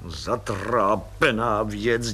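slow, drawn-out wonder; mild astonished muttering; bewildered. Acted. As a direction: marvel at it, slowly. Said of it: "divil se plukovník".

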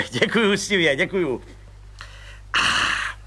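a high, eager little man's voice; high chirpy little agent; Pištora voice. Acted. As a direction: pipe it up like a cheerful small policeman. Pištora thanks.

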